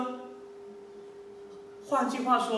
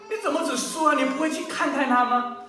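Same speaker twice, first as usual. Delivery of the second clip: higher-pitched mock scolding; retold reproach; 5 semitones higher, 4 dB louder than usual. Preacher voices his wife chiding him at night, reproachful. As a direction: imitate an exasperated telling-off.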